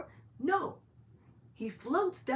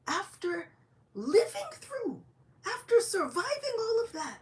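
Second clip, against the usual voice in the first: rising lament; 11 semitones higher, slower than usual. Acted. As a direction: pitch climbing high, drawn out. Haridas laments.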